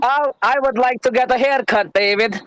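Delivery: light put-on German accent. Shown as a demonstration. Showing off a German accent to the room, lightly put on. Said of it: "Can I do my German accent real quick".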